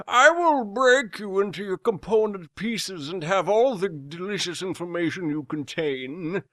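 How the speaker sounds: a hint of a creepy villain voice; menacing villain. Villain coolly threatening the captured pilot. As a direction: savour each threat.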